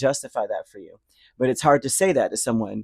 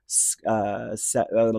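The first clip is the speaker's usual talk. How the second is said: stumbling on the first sound; broken restart with uh; stuttering; slower than usual. Real, not acted. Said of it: "I'm stuttering".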